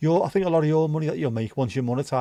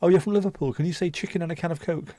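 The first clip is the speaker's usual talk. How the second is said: mocking questioner; 6 semitones higher than usual. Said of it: "whenever anyone asks me".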